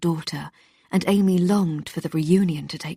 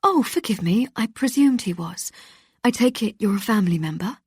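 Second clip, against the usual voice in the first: pitched up, apologetic presenter; flustered surprise; 4 semitones higher than usual. Acted. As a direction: backpedal quickly, caught off guard. Presenter caught off guard.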